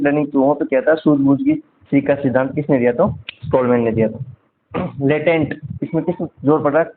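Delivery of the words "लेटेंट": लेटेंट with the first "ट" sound hit hard; stress on लेटेंट. Shown as a demonstration. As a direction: punch the "ट" in लेटेंट. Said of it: "टैप पे जोर पड़ रहा है". (लेटेंट में "ट" पर ज़ोर)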